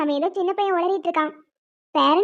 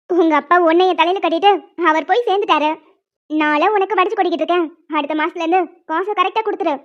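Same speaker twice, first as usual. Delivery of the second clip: harsh scolding. Acted. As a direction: spit it out at her with contempt. Stepmother scolds stepdaughter harshly.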